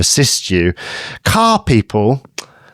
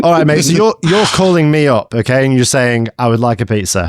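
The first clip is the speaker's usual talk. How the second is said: put-on Australian accent. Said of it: "I'm gonna do an Australian accent".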